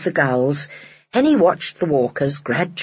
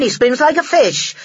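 scornful man; 7 semitones higher, 4 dB louder than usual. A narrator's reading. Man's voice.

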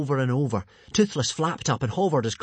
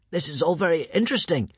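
raised, mildly strained voice; choked out; 6 semitones higher than usual. A narrator's reading. Hiccup being strangled by the tentacles, mildly choked voice. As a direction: force it out with a squeezed chest. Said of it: "Hiccup managed to choke out".

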